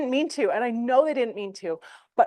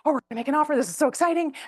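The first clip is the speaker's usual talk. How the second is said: mock excited; 5 semitones higher, much faster than usual. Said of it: "that roller coaster of".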